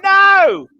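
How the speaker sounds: sudden loud high "No!"; a hammed-up outburst; mock shout. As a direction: snap it out, shocked. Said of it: "I'm like".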